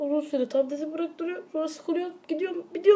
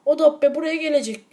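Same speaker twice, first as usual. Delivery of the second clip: mock threat; 3 semitones higher, 5 dB louder than usual.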